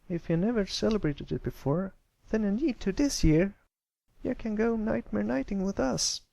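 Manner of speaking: high filly voice, insisting brightly; eager filly. Acted. Apple Bloom inviting Pipsqueak, eager high filly voice. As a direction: invite him along.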